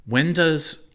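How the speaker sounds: high squeaky giggling chipmunk; giggly chipmunk voice. A narrator's reading. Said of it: "I giggled like a chipmunk".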